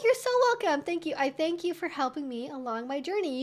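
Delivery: ordinary talk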